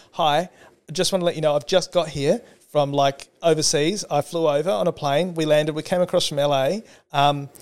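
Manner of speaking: lightly voiced, chatty over-explaining tourist; hurried, roundabout ask with no clear point; rambling Australian tourist. Australian tourist rambling at a New Yorker, mock chatty. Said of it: "I do this particularly badly".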